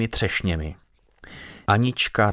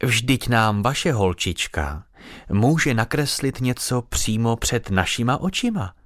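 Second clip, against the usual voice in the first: attempted kind tone; 2 semitones higher than usual. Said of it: "pokusila se paní o laskavý tón". (pomalý, strojeně laskavý tón)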